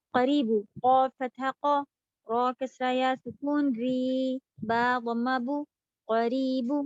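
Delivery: slow, deliberate letter-by-letter spelling. Shown as a demonstration. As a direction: spell it out slowly. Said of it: "teacher spells word slowly".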